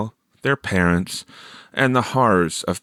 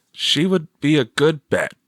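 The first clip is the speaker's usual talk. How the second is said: a lightly higher voice for the teacher; teacher voiced; 7 semitones higher than usual. A narrator's reading. Teacher advising Teresa, lightly voiced. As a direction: answer her helpfully.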